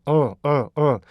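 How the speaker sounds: 어 as a short voiced L, tongue on the palate; dark L sound. Shown as a demonstration. Teacher models the L sound, short dark L. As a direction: say "어" as a short, falling uhl. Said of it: "이 소리를 찾으세요".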